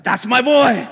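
loud, high laughing pride; proud laugh. Retold or imitated. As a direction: laugh it out like a thrilled dad. Proud dad retelling son's bike.

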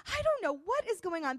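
high, pressured retold outburst; agitated confusion. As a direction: imitate her flustered and bewildered.

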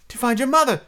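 put-on high, wheedling girl's voice; lightly acted high coaxing. A narrator's reading. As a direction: coax him, pitched well up. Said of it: "she coaxed".

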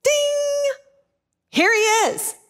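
high-pitched mock lightbulb moment; ding like a bell, then announce it high; acted excited realisation. Crowd seeing the multiplied bread, excited recognition.

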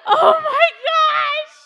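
high, loud helpless laugh; real laughter. Real, not acted. Telling youth group her childhood fear, laughing hard. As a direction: laugh right through the words.

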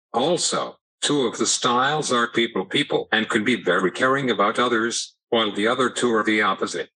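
synthetic text-to-speech voice; computer voice. Real, not acted. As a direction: speak like an AAC speech device. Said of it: "using a computer voice".

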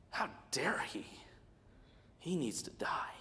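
whispered indignation; a whispered, scornful "how dare he"; hushed mock outrage. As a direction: breathe it out like a scandalised gossip. Voicing the offended religious crowd.

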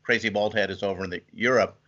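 ordinary delivery

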